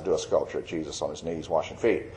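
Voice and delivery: a gentle, hushed command from God; still small voice. Retold or imitated. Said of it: "He spoke in a still small voice".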